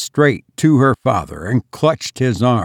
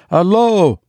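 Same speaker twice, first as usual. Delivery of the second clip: shaking voice; 8 semitones higher, 3 dB louder than usual. Acted. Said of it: "in a shaking voice".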